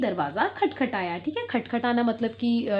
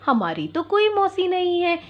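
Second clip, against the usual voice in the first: put-on higher, bold child voices; kids protesting; 6 semitones higher than usual. Goat kids answer the fox at the door, protesting. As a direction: insist like two little kids. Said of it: "दोनों बच्चे बोल उठे".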